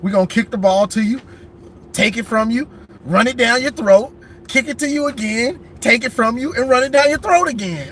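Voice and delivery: quick, swaggering coach pep talk building up; mock movie coach. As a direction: rattle it off like a cocky coach hyping his team. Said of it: "the coach from the movie".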